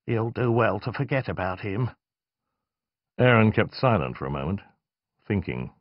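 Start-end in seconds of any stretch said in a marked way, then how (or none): 0.1-1.9 soft and fearful. Acted. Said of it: "spoke softly, almost fearfully".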